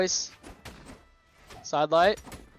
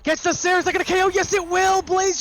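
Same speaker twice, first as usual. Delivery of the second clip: high, loud esports hype; excited call; 11 semitones higher, 5 dB louder than usual. Real, not acted. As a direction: call the KO at full pitch. Caster calling the KO.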